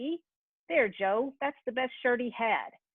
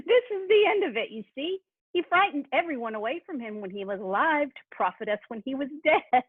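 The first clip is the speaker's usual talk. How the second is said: laughing gloat; 3 semitones higher than usual. Acted. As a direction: gloat with a laugh over his death. Gloats over the dead man.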